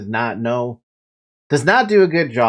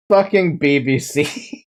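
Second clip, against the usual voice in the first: slow, dragged-out words with a rising end; slow mock-outraged repeat; drawn-out repeat; slower than usual. Shown as a demonstration. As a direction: stretch each word out in disbelief.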